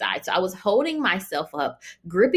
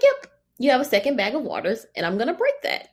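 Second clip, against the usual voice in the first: nurse voice; 7 semitones higher than usual. Retold or imitated. Nurse quoted, high far voice.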